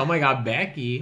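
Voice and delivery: lightly mocked Valley accent. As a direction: tease with a put-on Valley voice. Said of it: "You have a Valley accent".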